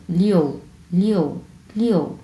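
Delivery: "লিও" with a clear o glide and fall; o sound included. Shown as a demonstration. Teacher modelling six for students, clear o. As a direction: let the o be heard in "লিও". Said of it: "আমার উচ্চারণের মধ্যে কিন্তু এটা".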